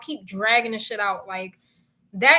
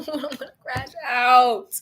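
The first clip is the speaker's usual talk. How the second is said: said through a laugh, slow; laughing at her own meltdown. Real, not acted. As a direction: giggle the words out.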